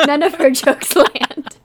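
slow and loud, every word weighted; slow emphatic punchline. Real, not acted. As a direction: drag out the punchline for effect. Punchline about throwing cats.

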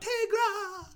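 high, drawn-out cry at ordinary volume; mock scream. Hero to woman sailing away, imitated scream. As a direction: imitate a far-off desperate call. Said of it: "he's screaming out".

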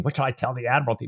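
quick, unexcited run of words; fast inner question; voiced thought. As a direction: rattle it off as a passing thought. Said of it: "I think he's thinking".

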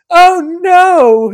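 high, loud mock cry; hammed-up dismay. Sidroy tumbles over the gnome, loud mock dismay. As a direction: cry out in comic alarm as you topple.

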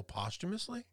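"posthumously" said as POSS-tuh-mus-lee, questioning; correct pronunciation. Shown as a demonstration. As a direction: stress the first syllable of "posthumously", short vowel, rising. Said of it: "it's not posthumously".

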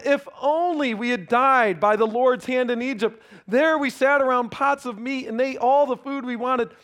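the people grumbling against their leader. Acted.

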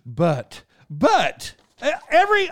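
a hint of an airline announcer, key words popping up; hammed-up announcer reading, breaking down at the end; airplane guy. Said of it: "how this guy talked".

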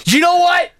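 furious outburst at a stranger; sudden angry shout. Retold or imitated. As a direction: explode at the other driver. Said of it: "he flew off the handle".

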